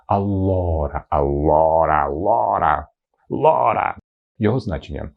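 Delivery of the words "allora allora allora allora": «allora» with a long stressed O. Shown as a demonstration. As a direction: lean on the O in «allora». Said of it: "Наголос на букву О". («allora» з наголосом на О)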